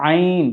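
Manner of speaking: "আইন" from the middle of the throat; throaty Arabic ayn. Shown as a demonstration. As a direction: squeeze the start of "আইন" in mid-throat. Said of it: "কণ্ঠনালীর মধ্যখান থেকে উচ্চারণটি আসে". (কণ্ঠনালীর মধ্যখান থেকে "আইন")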